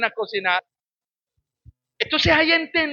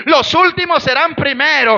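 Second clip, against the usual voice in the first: los últimos serán primeros, hammered out loud; emphatic shouted repeat; 3 dB louder than usual. Real, not acted. Preacher to his congregation, repeating the verse as a shout. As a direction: drive the verse home with a shout. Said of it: "dice la palabra de Dios que los últimos".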